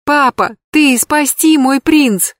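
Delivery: put-on high, slow, pleading little girl's cry; a small daughter crying out to her father; passionate child's cry. A narrator's reading. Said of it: "страстно крикнула Лидочка". (страстный детский крик)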